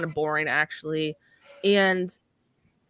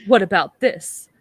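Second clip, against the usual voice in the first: pleading shout; 4 semitones higher, 8 dB louder, slower than usual. Retold or imitated.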